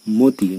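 মতি as "mo-ti"; closed o vowel. Shown as a demonstration. Teacher gives an example, মতি with closed o. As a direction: round the first vowel of মতি to o. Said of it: "ও এর মতো".

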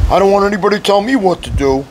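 quick, stubborn send-up of a rebel; mock defiant churchgoer. Preacher mocking a churchgoer who refuses to be told, quick and stubborn. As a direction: rattle it off like someone who wants no one's rules.

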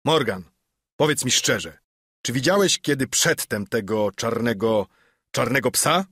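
a hint of a stern master. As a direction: press Morgan hard. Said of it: "rzekł bardzo surowo".

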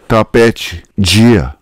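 Tapete with a soft chi on the te, dia with a soft G; soft chi and G sounds. Shown as a demonstration. Teacher demonstrating Brazilian Tapete and dia, soft chi and G. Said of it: "change their sound to a soft chi and G".

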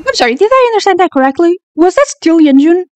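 can't believe what she just saw; bewildered. Real, not acted. Fan checking the plot twist, baffled.

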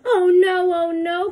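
loud, high worried cry; buffalo cries out. Acted. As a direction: beg in alarm. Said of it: "cried the buffalo".

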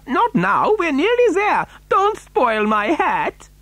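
high-pitched protest, slowing at the end; urgent pleading. A narrator's reading. Wonka protecting his hat, pleading urgently. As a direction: plead high, dragging out the last words.

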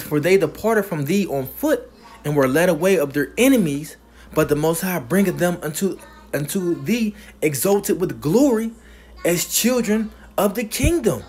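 emphatic preacher reading a verse; scripture reading. Real, not acted. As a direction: proclaim it, leaning on key words. Preacher reads scripture aloud emphatically.

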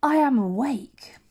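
high, slow, theatrical shriek; a grand drawn-out cry of waking. Acted. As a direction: announce it to the whole ship, shrieking. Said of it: "and shrieked".

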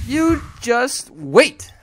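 slow, loud, high teasing warning; half-joking menace; drawn-out mock threat. Real, not acted. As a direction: stretch out every word like a cartoon villain. Threatening the opponent.

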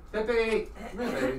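high sing-song call to a dog. Real, not acted. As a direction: coax the puppy over, high. Calling the dog sweetly.

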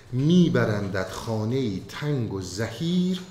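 slow, measured recital of classical verse; poem recitation. Acted. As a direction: chant the couplets slowly, with weight.

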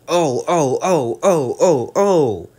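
high, loud squealing truck chorus. Acted. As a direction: cry out like silly bumping trucks. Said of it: "they bump into each other screaming".

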